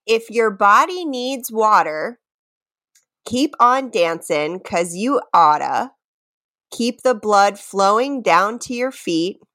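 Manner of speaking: measured recital with pauses between lines; lyric reading. Pretend. Host reads the next quiz lyric, measured recital. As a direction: read the lyrics out deliberately, line by line.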